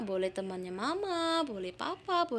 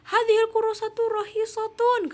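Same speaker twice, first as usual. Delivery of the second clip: high, loud delighted remark; pleased surprise; 12 semitones higher, 6 dB louder than usual. Acted. Karim remarks the book is cheap. (kagum, suara tinggi dan keras)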